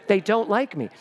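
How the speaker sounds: mock-distraught actress plaint; mock Sally Field. Rejected young actor upset at the cast, mock-wounded. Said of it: "I was like Sally Field".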